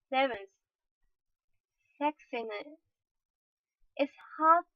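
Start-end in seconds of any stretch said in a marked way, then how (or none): 4.0-4.7 breathy teasing whisper on it's hard; a mock-sexy hushed whisper; sultry whisper. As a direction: whisper it like a seductive aside. Talking about sexiness.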